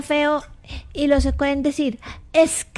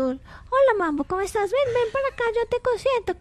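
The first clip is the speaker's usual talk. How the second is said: softly coaxing, a little high; gentle pet talk; 6 semitones higher, 4 dB quieter than usual. Shown as a demonstration. Child shows affectionate way to the dog, gentle coaxing. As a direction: call the dog over gently. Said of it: "le hablas normal".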